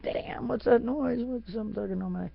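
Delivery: half asleep and creeped out; high, nervous startled voice; spooked. Retold or imitated. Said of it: "I was like".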